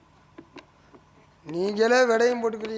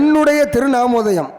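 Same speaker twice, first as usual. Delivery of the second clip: grand formal; 2 semitones higher, 6 dB louder than usual. Acted. Pompous formal name answer.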